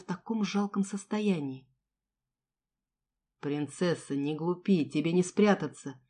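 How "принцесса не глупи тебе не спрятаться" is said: a lower, assured man's voice; coaxing predator, lightly voiced; confident mercenary. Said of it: "произнёс уверенный голос Де Йонги". (уверенный голос наёмника)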